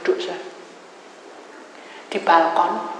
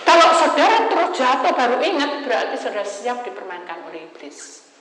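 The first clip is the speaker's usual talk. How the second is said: preaching; 6 semitones higher, 6 dB louder than usual. Real, not acted. Preacher warning the congregation at full force.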